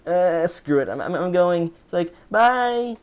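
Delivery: high, loud rushed goodbye; hurried exit. Retold or imitated. Kid fleeing the bathroom, high and loud. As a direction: blurt it and bolt. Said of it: "I was like".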